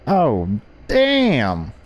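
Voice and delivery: loud, surprised radio host; surprised exclamation. Acted. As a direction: react with shock.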